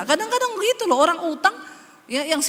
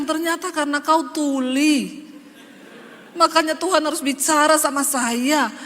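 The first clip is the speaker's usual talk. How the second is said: laughing tease; 3 dB louder than usual. Retold or imitated. Wife teasing her husband about not listening: laughing. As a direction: tease through a laugh, a bit louder.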